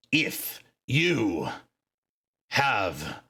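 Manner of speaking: slow, grave pronouncement of clan law; a wise elder laying down the ruling; solemn orc seer. Acted. Seer to the quarreling orcs, slow grave ruling. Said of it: "begins to speak and says".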